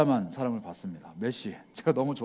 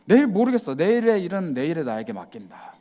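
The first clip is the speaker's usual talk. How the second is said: careless shrug; 3 dB louder than usual. Retold or imitated. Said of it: "이게 아니고".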